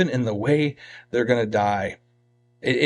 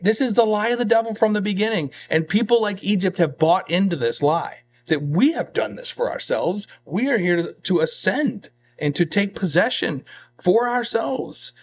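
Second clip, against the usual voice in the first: higher-pitched, insistent preaching; emphatic preaching; 6 semitones higher than usual. Real, not acted. Preacher exposing the lie of the devil, emphatic. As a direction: press the point home to the congregation.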